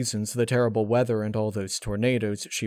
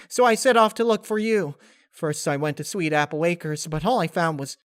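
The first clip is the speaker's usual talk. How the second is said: much higher and louder, gushing pony voice; Pinkie Pie overjoyed; 7 semitones higher, 6 dB louder than usual. Acted. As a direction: bubble over with delight. Pinkie overjoyed, rambling again.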